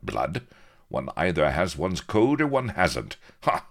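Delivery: defiant. Acted. Captain refuses to shut up before angry pirates, haughty defiance. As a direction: stand your ground, stressing the principle. Captain defends himself against the crew.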